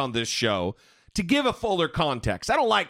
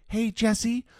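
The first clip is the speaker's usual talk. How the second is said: sweetly rude; 4 semitones higher than usual. Retold or imitated. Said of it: "Just because you said it sweetly".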